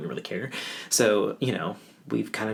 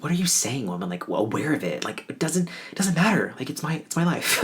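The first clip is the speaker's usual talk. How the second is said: higher-pitched, incredulous protest; retold exasperation; 4 semitones higher than usual. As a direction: push back in mock disbelief. Retold irritated argument with crying mother.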